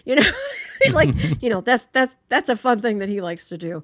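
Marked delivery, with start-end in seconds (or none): 0.3-0.9 short high-pitched laugh; real burst of laughter; amused laugh. Real, not acted. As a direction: laugh loudly at the thought. Laughs at friend's phone prank.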